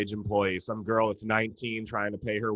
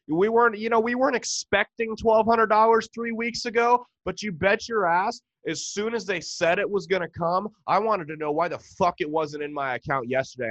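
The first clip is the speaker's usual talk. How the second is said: worked-up rant; 8 semitones higher than usual. Real, not acted. Ranting about stimulus money.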